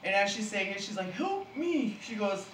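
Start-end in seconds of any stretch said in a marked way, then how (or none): 1.1-2.0 imitating Barney Rubble. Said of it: "she sounds just like Barney Rubble".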